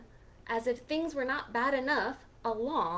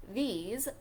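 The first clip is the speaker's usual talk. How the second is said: cool Grumpy Toad; slower than usual. Acted. Toad offering Pete the sunglasses, slow and cool. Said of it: "He said".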